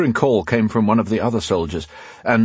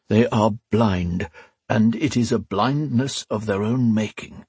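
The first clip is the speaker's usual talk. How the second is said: slow, lightly voiced old priest; sorrowful judgment.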